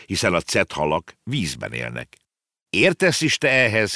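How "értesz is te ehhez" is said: high-pitched mild outcry; exclaiming. Acted. Girl challenging the boy on whales, exclaiming. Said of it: "kiáltott fel a kislány".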